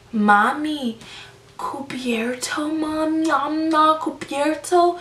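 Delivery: put-on hushed, slow Spanish-accented plea; imitating a customer asking in accented Spanish. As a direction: lean in and whisper it slowly with a Spanish accent. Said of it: "he looks me dead in my eyes and he goes".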